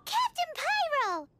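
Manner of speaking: slow, proud proclamation of "Captain Pyro!" with weight on "Captain"; grand announcement. Acted. Paimon proudly christening the hero, slow and grand. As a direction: unveil "Captain Pyro!" like a superhero title.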